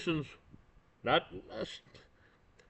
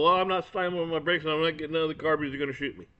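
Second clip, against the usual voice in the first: quoted people; 3 semitones higher, faster than usual. Retold or imitated. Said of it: "people go".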